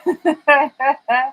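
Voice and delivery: stretched punchline. Acted. Drawn-out punchline word.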